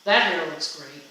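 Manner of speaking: straight, genuine praise; sincere compliment. Shown as a demonstration. Speaker demonstrating tone of voice, sincere compliment. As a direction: say it like you mean it. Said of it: "I'm gonna use the same words, but I'm gonna say two different things".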